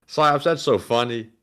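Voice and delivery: unimpressed, understated sarcasm; sarcastic. Real, not acted. Co-host answers a viewer's joke, sarcastic. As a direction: praise the joke without meaning it. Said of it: "That sounded so sarcastic".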